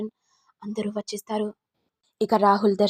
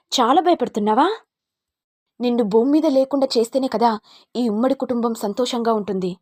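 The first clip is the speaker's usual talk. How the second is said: louder, cold threat; raised murderous threat; menacing threat; 4 dB louder than usual. Acted. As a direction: promise to wipe her out. Threatening to kill her.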